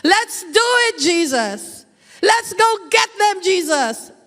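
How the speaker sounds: high, energetic call; rally eagerly with Jesus; eager yes. Retold or imitated. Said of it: "I will just". (masiglang pagsang-ayon)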